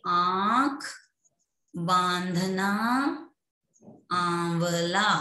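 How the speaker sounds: आंख, बांधना, आंवला spaced out, first vowels nasal; nasalized vowel recap. Shown as a demonstration. Teacher recaps examples, nasal vowels in आंख, बांधना, आंवला. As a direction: list आंख, बांधना, आंवला with "aa" through the nose. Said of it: "अनुनासिक ये पढ़े".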